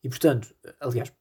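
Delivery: ordinary delivery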